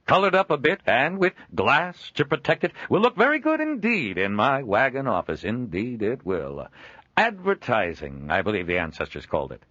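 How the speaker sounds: high, loud jovial merchant; booming cheerful peddler; hearty trader voice. Acted. Joel speaks.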